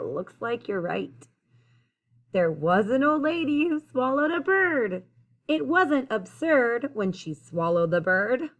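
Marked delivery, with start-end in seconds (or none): 2.3-8.5 clear, lilting rhymed storytelling; picture-book read-aloud. A narrator's reading. Reader telling children about the old lady, lilting storytime read-aloud. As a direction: read the rhyme out to young listeners.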